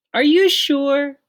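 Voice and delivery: stunned by the answer; mother startled by her son's wish; surprised mom. A narrator's reading.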